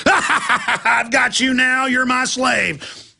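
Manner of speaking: mock Disney villain gloat; Sea Witch. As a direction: drag it out like a cartoon sea witch. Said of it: "she laughs and goes".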